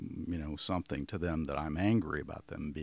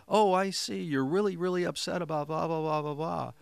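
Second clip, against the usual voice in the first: high and loud, matching the upset energy; matching their intensity; 10 semitones higher, 6 dB louder than usual. Shown as a demonstration. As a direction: meet their urgency at the same pitch and volume. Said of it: "match someone in their tonality".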